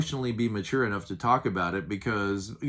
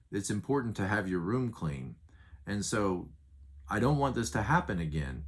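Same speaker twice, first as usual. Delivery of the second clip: controlled and loving, no raised voice; calm, sincere talk. Shown as a demonstration. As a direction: tell your child how you feel, gently. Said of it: "communicating it to you and saying".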